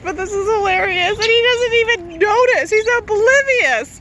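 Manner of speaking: words shaken by real laughter; fast and giggling, can't hold it in; laughing. Real, not acted. Owner laughing while the dog ignores the angry bird, laughing. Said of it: "I don't mean to laugh this much".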